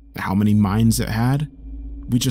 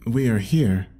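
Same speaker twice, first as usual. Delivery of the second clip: sarcastic. A narrator's reading. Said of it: "I repeated sarcastically".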